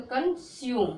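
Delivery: slow "कंज्यूम" in two parts, yu glide in the second; model pronunciation. Shown as a demonstration. Teacher shows learners the reading, slow model pronunciation "कंज्यूम". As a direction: stretch "कंज्यूम", final e silent. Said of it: "क्या बोलोगे".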